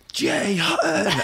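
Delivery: stretched-out mock announcer call of his name. Imitating the announcer introducing him to the crowd, drawn out. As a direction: boom out the name like a ring announcer.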